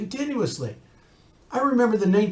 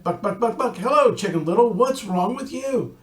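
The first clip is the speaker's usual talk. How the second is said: hen clucking buck buck, then a higher hello; 4 semitones higher than usual. Acted. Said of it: "And Henny Penny said".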